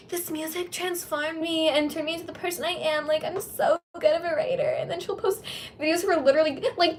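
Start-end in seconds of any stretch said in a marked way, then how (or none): 0.1-4.7 lightly put-on self-important voice; a hint of a smug singer; mocking impression. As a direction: parody her grandness. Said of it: "she's like".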